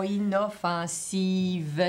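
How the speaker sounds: inoffensive said very slowly, final V clearly sounded; correct reading. Shown as a demonstration. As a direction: spell out inoffensive syllable by syllable, ending in a crisp V.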